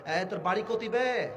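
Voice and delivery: Rajshahi dialect. Retold or imitated. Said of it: "এই রাজশাহীর ভাষায় মাঝে মাঝে বলো না".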